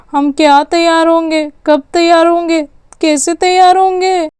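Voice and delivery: string of impatient questions, climbing in pitch; mock-anxious child's volley of questions; breathless questioning. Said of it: "इतने सवाल क्यों पूछती है तू? सांस तो ले ले।".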